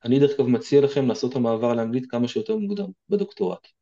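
normal talking voice

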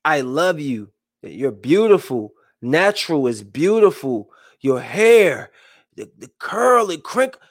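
tender praise to daughter. Retold or imitated. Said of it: "this is why I tell my daughter".

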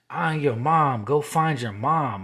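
insistent, voice lifted; insistent retold order. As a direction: order it, lightly acting the dream woman. Dream woman orders him, retold.

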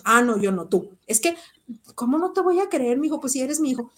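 defensive mother. Retold or imitated. Mother defensively dismissing son.

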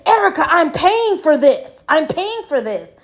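imitating annoyed client. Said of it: "got real fucking annoyed and was like".

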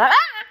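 high sudden yelp; mock jump scare yelp. Scared by a horror film, a sudden high yelp. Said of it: "not jumping and going".

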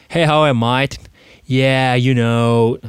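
easygoing Aussie mate talk; Australian accent. Retold or imitated. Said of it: "こういう言い方しないっすからね". (軽いオーストラリア英語の口調)

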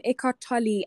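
"Tolle" said as TOL-ee; Tolle in two syllables. Retold or imitated. Co-host quoting Oprah saying the author's name, "Tolle" ending in ee. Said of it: "Oprah was going like, um".

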